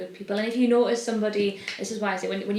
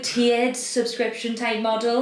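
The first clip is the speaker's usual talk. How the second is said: louder, hammed-up sales pitch; mock sales pitch; 3 semitones higher, 5 dB louder than usual. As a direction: pitch it like a cheesy ad.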